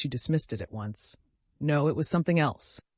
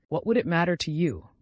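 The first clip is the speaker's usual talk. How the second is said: a raised cry with a touch of despair; 4 semitones higher, 6 dB louder than usual. A narrator's reading. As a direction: throw the question out, louder, in mild despair. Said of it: "cried a moment later with a sort of despair".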